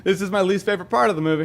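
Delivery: laughing through it, fast. Retold or imitated. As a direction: giggle as you rush the line.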